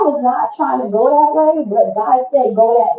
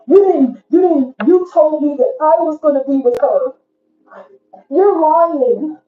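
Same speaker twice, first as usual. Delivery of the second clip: mock angry client; 5 semitones higher than usual. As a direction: whine it like a cheated customer. Angry client confronting tarot reader.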